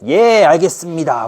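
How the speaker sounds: slow, cheerful obliging yes; clueless minister. Acted. Minister cluelessly accepting the king's refusal. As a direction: agree slowly without reading the mood. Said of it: "눈치가 더럽게 없는 거고".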